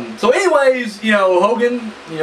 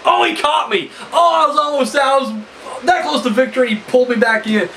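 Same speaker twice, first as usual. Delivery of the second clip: mock whiny wrestler; 5 semitones higher than usual. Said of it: "just like".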